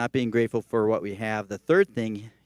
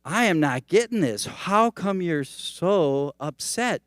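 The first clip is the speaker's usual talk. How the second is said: baffled friend; 5 semitones higher, slower than usual. Acted.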